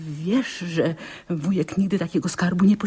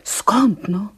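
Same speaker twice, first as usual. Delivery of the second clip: whisper; 2 semitones higher than usual. Acted. Aunt puzzling over the treasure.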